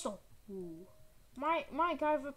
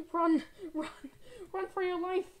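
raised, dramatic escape warning; urgent yell; 5 semitones higher, 4 dB louder than usual. Pretend. Player spotted by infected urges Mike on, urgent yell. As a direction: yell to flee in mock panic.

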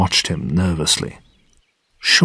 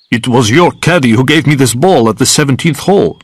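higher, mildly angry accusation; angrily; 4 semitones higher, 3 dB louder than usual. A narrator's reading. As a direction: accuse him with a touch of anger. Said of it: "began Goldfinger angrily".

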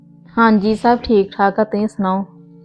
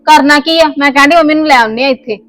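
higher, louder heated retort; 4 semitones higher, 3 dB louder than usual. Acted. Wife arguing to bring her mother home, heated, higher and louder. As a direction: snap back at him.

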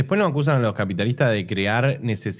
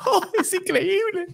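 amazed gasp; 4 dB quieter than usual. Pretend. Awed exclamation, high far voice.

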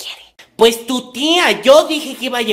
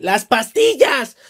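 sudden demand; much slower than usual. Acted. Mother dropping the frail act to demand the pills.

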